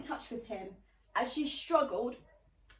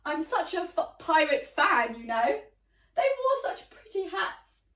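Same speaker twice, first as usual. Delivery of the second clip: gushing neighbour; 3 semitones higher, 6 dB louder than usual. Acted. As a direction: coo fondly over the pirates. Neighbour gushes about pirates.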